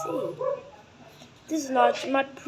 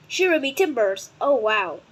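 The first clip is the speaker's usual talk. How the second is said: pirate voice; 4 dB louder than usual. Pretend. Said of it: "talk like a pirate".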